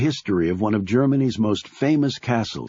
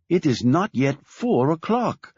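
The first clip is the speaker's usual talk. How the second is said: higher, scolding mother's voice; wife scolds husband over his afternoon cognac; 7 semitones higher than usual. A narrator's reading. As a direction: scold him for drinking early. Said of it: "she said in a scolding tone".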